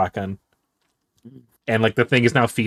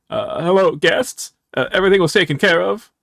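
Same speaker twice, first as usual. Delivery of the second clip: intercom announcement; 4 semitones higher than usual. Acted.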